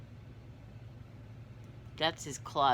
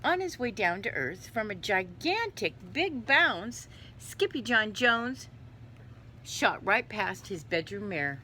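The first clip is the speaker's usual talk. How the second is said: put-on animated children's read-aloud; story narration; 4 semitones higher, 3 dB louder than usual. A narrator's reading. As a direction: tell the tumble with lively emphasis.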